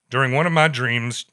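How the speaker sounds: put-on slipping into a light Ed accent by mistake; accidental Ed accent. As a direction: read it in a hint of Ed's New England accent. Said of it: "where did that accent come from?".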